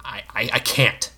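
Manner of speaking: halting whispered refusal; hushed, faltering; stammering whisper. A narrator's reading. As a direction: stumble over the I in a whisper. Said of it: "he urged".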